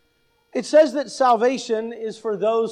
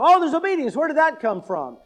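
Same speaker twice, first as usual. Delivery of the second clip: mock surprise; 5 semitones higher, faster than usual. Mimicking a surprised reader.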